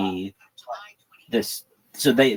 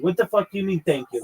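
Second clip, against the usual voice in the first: jumps much higher, incredulous sneer; mock scoffing retort; 8 semitones higher than usual. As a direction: toss it back like a rude punk. Troll scoffing at thanks.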